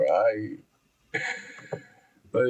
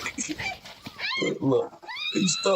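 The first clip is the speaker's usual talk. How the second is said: excited shout. Real, not acted. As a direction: yell it at the screen, thrilled. Yelling at fight on screen.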